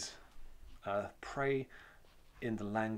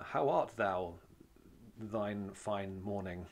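mock old-fashioned speech; slower than usual. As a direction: poke fun at stiff old English. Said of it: "that's just not the way I speak".

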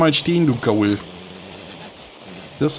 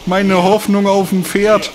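mock lament; 7 semitones higher, 5 dB louder than usual. Real, not acted. Lament after losing horse.

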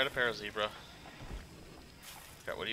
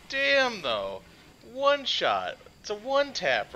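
much higher, louder cheer; excited shout; 12 semitones higher, 6 dB louder, much slower than usual. Real, not acted. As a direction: cheer the hit like a fan. Cheering the one-shot kill.

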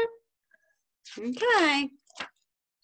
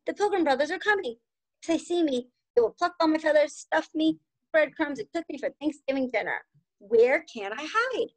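mild worried turkey; 4 semitones higher than usual. Acted. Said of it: "the turkey cried".

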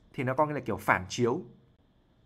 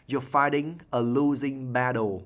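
slow repeat; slower than usual. Shown as a demonstration. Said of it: "repeats line slowly for learners".

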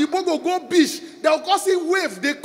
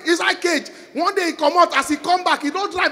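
ordinary talk

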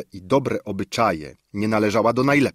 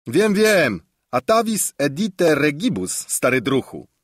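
much higher, louder, cutting in eagerly; eager interruption; 6 semitones higher, 4 dB louder than usual. A narrator's reading. Paliwoda interrupting the prince, eager high interruption. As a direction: jump in over him with cheerful impatience. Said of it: "przerwał Paliwoda".

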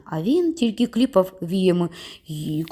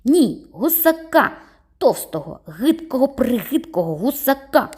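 taunting yell; 6 semitones higher than usual. A narrator's reading. Boy keeps yelling insults while running away. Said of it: "кричав він на ходу".

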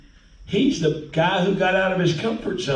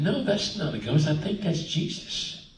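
softer, dropping away; acted hushed realization; 7 dB quieter than usual. Peter to the others in the boat, softer acted reply. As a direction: voice Peter quietly working it out. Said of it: "and Peter said".

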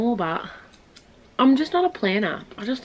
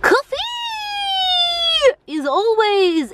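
mock posh motto; 10 semitones higher, slower than usual. Slow drawn motto.

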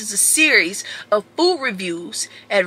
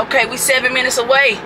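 normal talking voice

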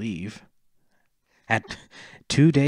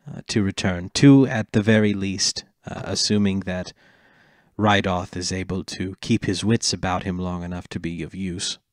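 christmas elf voice; 4 semitones lower than usual. Acted. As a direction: give the elf a bright, jolly lilt. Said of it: "Go back to the gay elf voice".

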